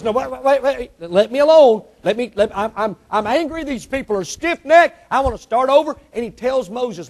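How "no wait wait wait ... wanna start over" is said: mock angry God. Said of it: "God says".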